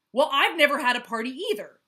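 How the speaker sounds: high, very loud yell. Acted. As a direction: yell it back at Moose. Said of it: "yelled Jackal".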